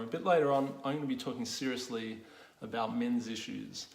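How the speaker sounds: grave, earnest announcement; serious tone. Shown as a demonstration. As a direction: say it seriously to camera. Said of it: "just gonna look seriously at the camera".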